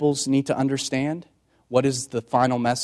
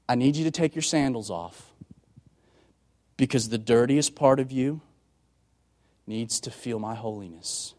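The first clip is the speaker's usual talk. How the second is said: gentle voice of God; 4 dB quieter than usual. Acted. God speaks to Moses.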